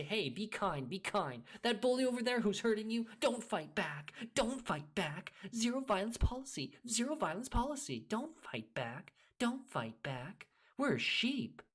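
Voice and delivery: high, mocking singsong of preachy sheeple. Ranting about sheeple, mimicking them in a high mocking voice. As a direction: parody the preachy do-gooders in a high put-on voice. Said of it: "They say".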